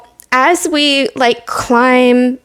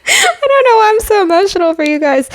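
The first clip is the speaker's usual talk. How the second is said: near tears; 10 semitones higher, faster than usual. Real, not acted. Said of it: "I am literally about to cry".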